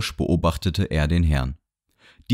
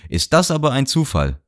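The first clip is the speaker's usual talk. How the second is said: high, happy surprise; a delighted old man marveling; smiling gentleman; 8 semitones higher, 3 dB louder than usual. A narrator's reading. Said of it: "lächelte". (hoch und lächelnd erstaunt)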